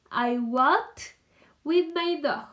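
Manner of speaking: "I walked" with the ED ending stressed. Shown as a demonstration. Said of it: "le agregué la terminación E D".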